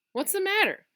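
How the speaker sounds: puzzled question. Acted. Father's puzzled question in story.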